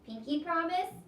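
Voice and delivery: put-on a kid sealing a deal; little boy voice. Toby asks for promise.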